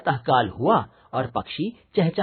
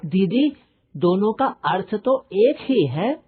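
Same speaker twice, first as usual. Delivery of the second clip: put-on child student asking; 6 semitones higher than usual.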